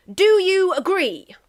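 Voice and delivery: Russia asking. Acted. Russia voice, pitched up.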